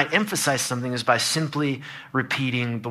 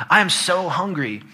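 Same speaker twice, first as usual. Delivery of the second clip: "so" raised in pitch for emphasis; emphatic punctuation; 4 semitones higher than usual. Shown as a demonstration. Preacher showing punctuation's emphasis, raised "so". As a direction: lift "so" as if punctuated. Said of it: "We can add punctuation".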